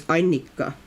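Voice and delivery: Annika with a strong first syllable; native name pronunciation. Shown as a demonstration. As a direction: say "Annika" stressed up front with a held double n. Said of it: "way you would say my name".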